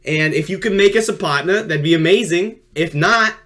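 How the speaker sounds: mild sports commentator voice. Acted. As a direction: call it like a sportscaster. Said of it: "I'm just gonna do my sports commentator voice".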